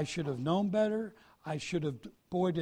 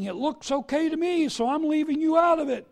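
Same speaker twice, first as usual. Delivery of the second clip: careless self-talk; 9 semitones higher, 7 dB louder than usual. Retold or imitated. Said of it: "at the car and saying".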